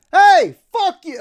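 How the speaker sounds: high, drawn-out mock heckle; gleefully hammed-up, slow high-pitched yell; imitated vitriol. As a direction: imitate an angry off-screen heckler. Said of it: "listen to the vitriol".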